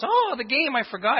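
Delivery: mock sudden realisation. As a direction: act like you just remembered the game. Guy remembers the game.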